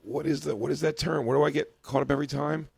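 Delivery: words round a pen in the mouth; pen in teeth. Real, not acted. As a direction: talk with a pen between teeth. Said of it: "there's a pen in my mouth".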